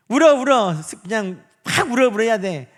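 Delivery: emphatic cry-it-out coaxing; urging loudly. Retold or imitated. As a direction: push them to let it out. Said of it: "울으라고 막 하는 분도".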